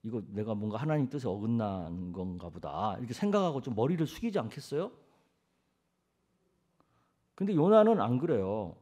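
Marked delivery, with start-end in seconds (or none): 0.0-3.0 low, soft self-reproach; meek inner admission, acted; humbly contrite. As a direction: murmur it like someone bowing their head. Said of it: "얼른 머리 숙이고".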